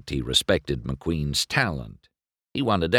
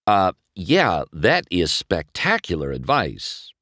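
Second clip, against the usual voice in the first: absent-minded. Acted. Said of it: "McQueen said absently".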